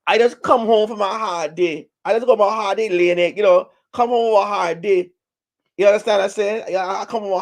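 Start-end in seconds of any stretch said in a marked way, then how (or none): 0.1-5.1 complaining hen. Retold or imitated. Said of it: "He said".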